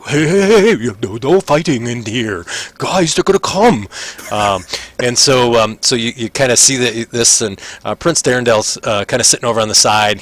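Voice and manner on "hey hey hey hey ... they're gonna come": loud, high warning; urgent call. Acted. Prisoner warning the fighters the guards will come, loud and urgent. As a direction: hush them before the guards come.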